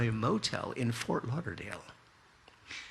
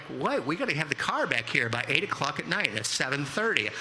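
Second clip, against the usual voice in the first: raised, mock-outraged objection; exasperated protest; 4 semitones higher, 4 dB louder than usual. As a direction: protest as buddies alarmed by a deadline. Buddies' retold objection to detour.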